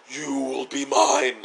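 slow, drawn-out cult-leader line; cultish captor. Acted. Captor claims his hostage, lightly cultish. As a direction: stretch it out like a mock cultist. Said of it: "he gets all cultish on her".

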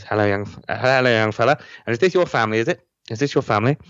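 Pertwee impression. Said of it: "the impression".

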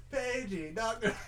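slow flat announcement over a PA; flat echoey pa page. Retold or imitated. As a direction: page it like a hospital intercom. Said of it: "doing the Hangover".

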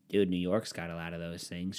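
low, muted mock objection. Mocking a New York defender, first take.

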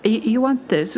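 a hint of a doddering shopkeeper; very old woman. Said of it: "a very old lady".

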